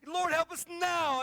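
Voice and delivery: slow, loud, high, leaning on now; urgent loud plea. Retold or imitated. Man in a sliding car, urgent loud plea. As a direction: time the help with each word. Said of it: "I remember counting".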